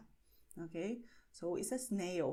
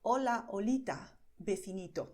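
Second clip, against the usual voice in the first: cutesy greeting; 5 dB louder than usual. Retold or imitated. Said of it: "he always greets Homer by saying".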